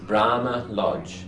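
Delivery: Brahma Lodge said slowly for listening; teacher telling the class to listen; slow modelling. Shown as a demonstration.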